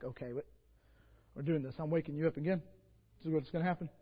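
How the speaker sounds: low, soft self-talk; quiet resolve. Retold or imitated. Preacher deciding to wake the aunt again, hushed. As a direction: steel yourself in a murmur. Inner decision, quoted.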